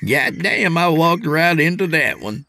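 high put-on youngster voice; rueful young trainee. Trainee admitting he set up the joke, rueful. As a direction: concede the hit as the kid.

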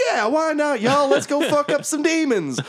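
very high, gung-ho creature voice; high-pitched rallying holler; Lulu the mammoth. Acted. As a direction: whoop it up as an eager war mammoth. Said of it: "And Lulu's like".

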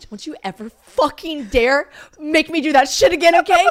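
loud, high, slow telling-off, acted out; hammed-up outraged demand; angry warning. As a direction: punch each word as a furious retold warning. Retold angry outburst to friend.

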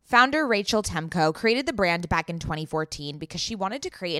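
polished sponsor copy; ad read. Acted. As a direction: recommend the brand to listeners as a scripted promo. Reads a sponsor ad.

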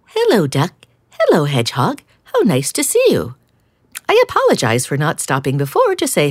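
cheerful cat voice; cat sister voice. Acted.

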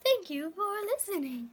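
mock smart speaker voice; Alexa voice. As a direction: play a voice assistant. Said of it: "I am Alexa".

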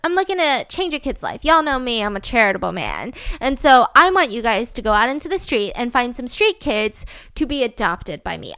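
lightly acted self-righteous speech; mock-charitable pitch. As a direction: retell a man selling himself as a do-gooder. Acts Peter's self-righteous pitch.

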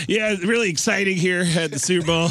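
Tom Arnold reporting from the Super Bowl; Tom Arnold impression. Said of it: "the only remotely sports guy I can do is Tom Arnold".

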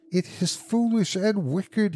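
slow, high-pitched faltering protest. A narrator's reading. Husband protests to his wife about the wish, faltering. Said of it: "he faltered".

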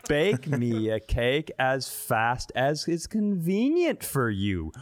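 usual speaking voice

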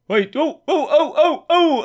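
high, loud, wailing oh oh oh; weird oh sounds. Retold or imitated. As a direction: wail it out high and strange. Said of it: "Sort of did a weird "oh, oh, oh" thing".

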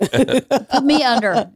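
drawn-out, slow echo; slow deadpan quote. Retold or imitated. Wife repeating Whitney's punchline, slow and deadpan. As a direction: stretch each word slowly.

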